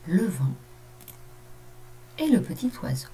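storytelling read to a class; story reading. A narrator's reading. Teacher reading a story to her pupils, gentle narration. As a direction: read the tale gently for children.

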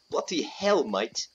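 bad mock British accent; attempted British accent. Shown as a demonstration. Gamer trying voices for viewers, shaky attempt at British accent. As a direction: have a rough go at a British accent. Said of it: "let's try a British accent".

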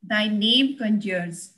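measured poetry reading with pauses between phrases; poem recitation. Acted. Poet reciting her poem on life to an online conference, measured recitation. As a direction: recite it line by line, weighting the key words.

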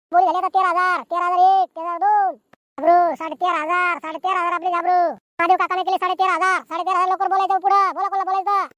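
running auction call; auctioneer's patter. Acted. Auctioneer urging villagers to bid quickly, auction patter. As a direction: urge the crowd on, bid after bid. Calls bids and urges more.

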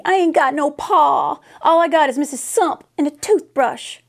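orphan crying out her lot, lightly voiced; bawling little girl. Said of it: "she went right on bawling".

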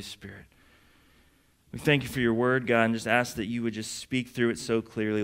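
prayer. Real, not acted. Leads an opening prayer.

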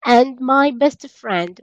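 drawn-out teacher modelling; slow classroom demonstration; very slow model phrase. Shown as a demonstration. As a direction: stretch every word for learners. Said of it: "teacher models English sentence".

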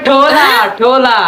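Chittagong Bengali accent; Chittagonian dialect. Shown as a demonstration. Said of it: "এটা তো আমরা কই".

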